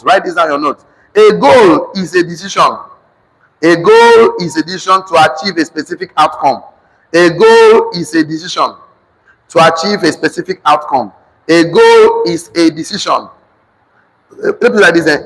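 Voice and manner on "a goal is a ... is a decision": measured, emphatic dictation in short chunks; dictation to class. Real, not acted. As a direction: dictate firmly, phrase by phrase, for note-takers.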